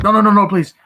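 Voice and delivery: high, loud burst of imitated begging; mock pleading. Retelling man begging villain to spare son, mock pleading. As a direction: beg rapid-fire to stop it, hammed-up. Victim begs to stop hit.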